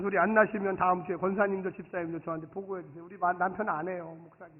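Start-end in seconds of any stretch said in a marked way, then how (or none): none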